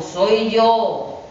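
the wolf's gruff voice, barely shifted; a hint of a gruff wolf at the door; lightly voiced wolf pretending to be mother; wolf with rough voice. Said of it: "contesta el lobo".

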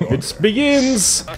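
epic announcer. Pretend.

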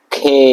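খে said with a breathy aspirated k; K as খে with a puff of air. Shown as a demonstration. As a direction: push air on the খে. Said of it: "কেটাকে আমরা কি বলবো?".

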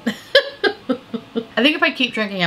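slow, giggling through the words; laughing. Real, not acted. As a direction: chuckle as you admit it. Tipsy, laughing at herself.

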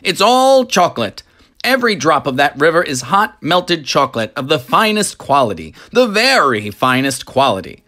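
high, loud, gushing showman; delighted factory owner showing off; boastful chocolatier. Acted. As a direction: brag about the river with rising glee. Wonka boasts of river.

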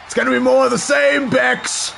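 taunting shout at the screen; loud trash talk repeat. Shown as a demonstration. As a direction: yell it at her like trash talk. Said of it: "repeats it louder".

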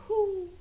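one high, rounded hoot; owl hoot. Shown as a demonstration. Teacher matching owl to its sound, high hoot. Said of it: "The owl goes".

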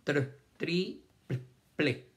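"Tr, tri, pl-, ple" piece by piece with pauses; sounding out. Shown as a demonstration. Teacher showing consonant blends, "Tr, tri, pl-, ple" sounded out separately. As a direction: build each blend, then add its vowel. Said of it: "otra consonante con otra consonante".

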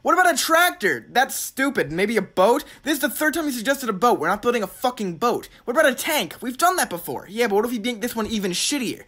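high-pitched mock squabble of shouted suggestions; acted shouting ideas. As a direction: toss out ideas as if calling across a room. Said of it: "shouting ideas at each other".

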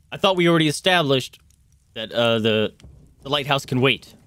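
mildly frustrated captain; a touch of impatience; a little frustrated. Acted. Captain reminding the party of the plan, mildly frustrated. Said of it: "a little, uh, a little frustrated".

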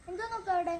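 normal talking voice

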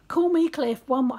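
loud, high attempt at a Scottish shout; badly faked Scottish yell; yelled Scottish accent. A narrator's reading. Tiny attacker challenging the woman, attempted Scottish yell. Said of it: "he yelled in a thick Scottish accent".

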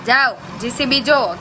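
loud call to look. Real, not acted. Mother calling baby to look at the JCB, loud and bright.

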